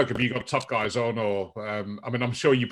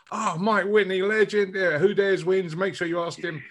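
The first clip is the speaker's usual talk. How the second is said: excited fan; 5 semitones higher than usual. Retold or imitated. Friends' excited reply retold.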